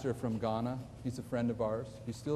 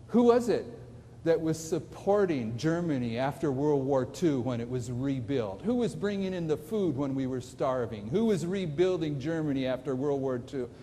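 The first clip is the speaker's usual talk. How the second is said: frustrated challenge. Retold or imitated. Translator challenging German theologians who are fighting the message, frustrated. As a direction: throw out pointed questions, first one jumping up. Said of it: "he was frustrated with them".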